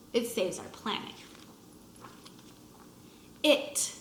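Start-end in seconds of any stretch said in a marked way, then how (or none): 3.4-3.9 breathy whispered word. Acted. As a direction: whisper it softly. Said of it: "whispered word".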